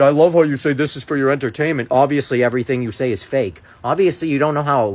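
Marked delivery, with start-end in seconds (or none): 0.0-3.6 quick, raised mimicry of a commenter; imitating a commenter. Creator quotes a doubting commenter to viewers, mildly mocking.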